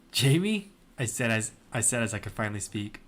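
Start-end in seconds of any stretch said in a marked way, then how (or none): 0.1-0.7 startled cry. Acted. Sees friend's ruined body.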